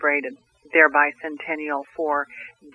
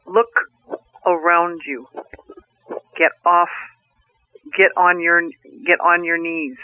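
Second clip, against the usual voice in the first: 1 booming voice. Acted. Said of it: "this big booming voice".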